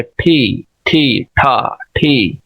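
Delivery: ठी with a strong puff of air, plosive release; aspirated ठी. Shown as a demonstration. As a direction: push the air out hard on ठी and ठा. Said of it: "प्लूसिव बोलेंगे". (हवा के ज़ोर से प्लूसिव ठी)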